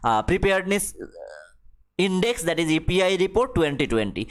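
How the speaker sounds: reads the English line very slowly, word by word; slow dictation reading. Acted. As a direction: spell it out for the class at dictation pace. Reads the English news text slowly. (ধীরে ধীরে ইংরেজি পাঠ)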